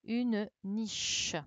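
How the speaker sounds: "niche" said carefully with a long ch; syllable sounded out. Shown as a demonstration. Teacher completing the word for pupils, "niche" with a drawn-out ch. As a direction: let the che in "niche" ring out clearly. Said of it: "la syllabe che qu'il fallait mettre ici pour obtenir".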